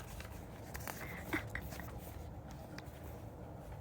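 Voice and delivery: quiet, mostly voiceless chuckle; small amused laugh; soft laugh. Real, not acted. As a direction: laugh softly to oneself. Laughs at the short chapter.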